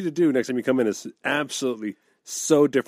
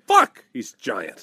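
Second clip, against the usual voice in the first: awed slow; 4 semitones lower, much slower than usual. Retold or imitated. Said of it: "going like".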